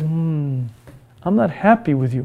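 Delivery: soft, disappointed inner voice; a quiet reproach from within; scolding conscience. Acted. Conscience quietly reproaches the selfish man, softly.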